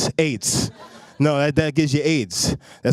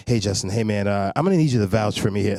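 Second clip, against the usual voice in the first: white friend calling; 9 semitones lower than usual. Retold or imitated. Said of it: "I'm like".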